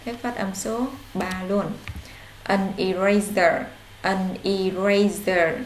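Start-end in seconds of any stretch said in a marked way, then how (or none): 2.4-5.5 "eraser" slow with a curled-tongue r. Shown as a demonstration. Teacher showing pupils the curled r, slowly. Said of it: "Cong lưỡi lên các bạn".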